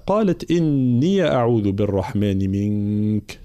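slow chanted tajweed recitation; slow Quran chant; Quranic recitation. Shown as a demonstration. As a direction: recite it measured and melodic.

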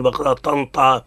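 "بقرة طنطا" with heavy ط sounds from the start; wrongly thickened tanween. Shown as a demonstration. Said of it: "ولا نقول".

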